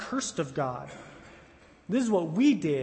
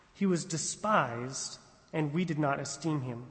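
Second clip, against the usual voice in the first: scripture reading. Acted. Reads scripture passage aloud.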